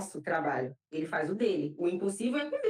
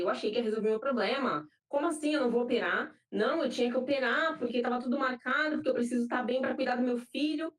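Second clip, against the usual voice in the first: higher-pitched, retold indignant protest; mildly indignant; 4 semitones higher than usual. Patient retelling her protest at cancelled surgery, mildly indignant. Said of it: "eu fiquei indignada".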